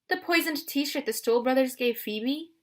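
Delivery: Aphrodite voiced. A narrator's reading. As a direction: purr like a doting love goddess.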